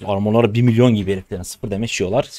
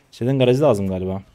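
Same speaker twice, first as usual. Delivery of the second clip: ordinary talk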